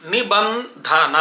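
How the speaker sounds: నిబంధన very slowly, syllable by syllable, aspirated ధ; drawn-out teaching నిబంధన, puff of air on ధ; correct aspirated dha. Shown as a demonstration. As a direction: spell out నిబంధన slowly with plain బ. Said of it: "దాకి ఒత్తు ఉంటుంది".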